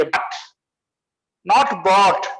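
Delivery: "but" said short, not like "bought". Shown as a demonstration. Teacher contrasting "but" and "bought" for students, clear demo. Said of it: "ठीक इसको बोलेंगे".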